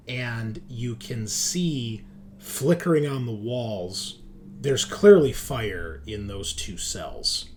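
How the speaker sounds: slow, deliberate game master narration; scene setting. Acted. Game master shows players the burning cells, slow scene setting. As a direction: describe the scene slowly, pausing between phrases.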